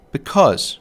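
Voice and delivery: "because" with the second syllable stressed; iambic stress. Shown as a demonstration. Lecturer giving an example of iambic rhythm, "because" stressed on "cause". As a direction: say "because" weak then strong, as an iamb. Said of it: "hear the rhythm of the iamb".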